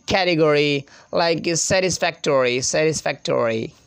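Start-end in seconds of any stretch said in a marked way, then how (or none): 0.0-0.8 American "category" with full "-gory"; "category", American-style ending; American pronunciation. Shown as a demonstration. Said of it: "they roll R sound". 1.6-3.7 "satisfactory" with full "-tory" and strong R; American-style "satisfactory"; American pronunciation. Shown as a demonstration. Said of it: "they roll R sound".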